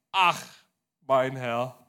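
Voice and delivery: loud startled outcry; a loud frightened "Ach, mein Herr"; startled cry. A narrator's reading. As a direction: cry out in sudden alarm as the axe head sinks. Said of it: "rief er erschrocken".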